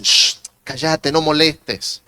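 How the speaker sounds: scolding crowd. Retold or imitated. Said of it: "le dicen".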